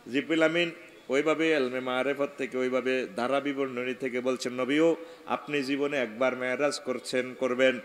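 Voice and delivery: running sing-song, long final vowel; intoned sermon recitation. Acted. Jibril promising the Prophet five daily meetings, intoned reply.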